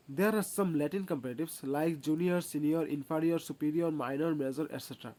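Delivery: very slow, each word laid out for copying; slow rule dictation. Acted. Teacher dictating a rule to students, slow and deliberate. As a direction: dictate the grammar rule slowly. Reads rule aloud slowly.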